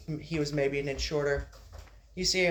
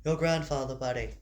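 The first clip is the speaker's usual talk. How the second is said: lightly voiced mother, close to the reader's own; a hint of a mother talking to her kid; mother's voice. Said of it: "There we are".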